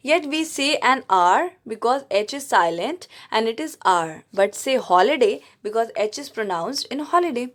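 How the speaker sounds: slow, careful English read-aloud; textbook reading. Acted. Teacher reads the grammar book to her class, slow. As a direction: read the rule out word by word.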